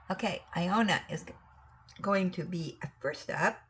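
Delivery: hiccuping while talking; words broken by a hiccup. Real, not acted. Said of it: "Oh no, I got the hiccups".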